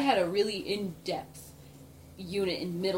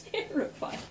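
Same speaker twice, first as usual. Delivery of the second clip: breathy whisper; 7 semitones higher, 5 dB quieter than usual. Real, not acted. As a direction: whisper it in mock horror. Reacting to kangarilla.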